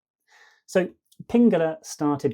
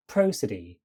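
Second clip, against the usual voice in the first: "prosody" with PRO strong and the rest light; dactyl stress; 4 semitones lower than usual. Shown as a demonstration. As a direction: stress just the first syllable of "prosody". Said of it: "is an example of an dactyl".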